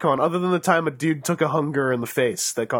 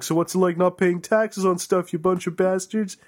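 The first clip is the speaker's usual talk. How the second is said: slow, drawn-out mock taunt; mock ganging up; 3 semitones higher than usual. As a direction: tease them like a jeering gang, slowly. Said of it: "would gang up in Alberta going".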